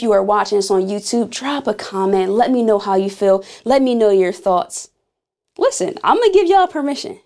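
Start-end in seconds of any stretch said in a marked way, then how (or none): 5.6-7.2 playful. Real, not acted. Playful teasing aside.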